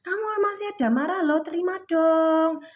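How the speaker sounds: lightly voiced cajoling plea; voicing the universe. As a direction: coax playfully, drawing out the end. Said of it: "gitu loh bahasanya ya".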